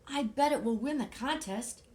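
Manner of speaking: high, loud cheery bird voice; excited high Big Bird. Acted. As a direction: sing out the praise brightly. Big Bird praising Ernie.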